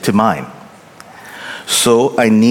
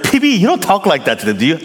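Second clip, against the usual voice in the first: doubtful listener; 6 semitones higher, much faster than usual. Retold or imitated. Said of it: "You're like".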